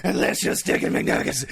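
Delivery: a light put-on zombie snarl; zombie woman growling. Host reading the zombie's yelled phrases, lightly voiced zombie. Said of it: "those phrases include".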